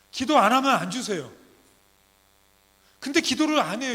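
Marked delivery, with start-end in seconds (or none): none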